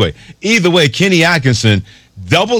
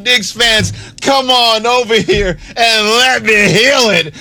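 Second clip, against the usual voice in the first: mock faith healer; 6 semitones higher than usual. Coach Kenny Atkinson soothing hurting Knicks fans, hammed-up healer voice. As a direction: lay on hands like a tent-revival healer. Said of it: "Kenny Atkinson said".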